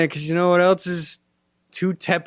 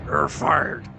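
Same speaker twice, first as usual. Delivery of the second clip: whispered boss line. Pretend. Voices boss in trailer.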